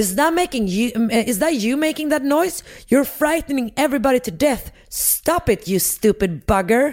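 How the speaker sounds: mock-angry shouting. Retelling a story where a furious woman comes out of her house, retelling a furious yell. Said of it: "skriker typ så här".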